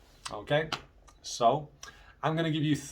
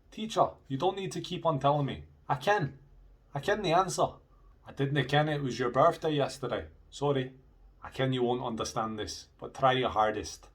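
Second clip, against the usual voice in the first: Scottish examples; 3 semitones higher than usual. Shown as a demonstration. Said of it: "let me give you some sentences".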